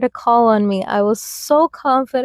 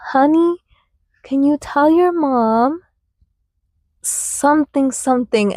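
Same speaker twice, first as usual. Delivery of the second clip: higher, coaxing teacher voice asking gently; teacher's sweet voice; 3 semitones higher than usual. Retold or imitated. Teacher coaxing a child to pass a message, sweetly. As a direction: coax the child like a kind teacher.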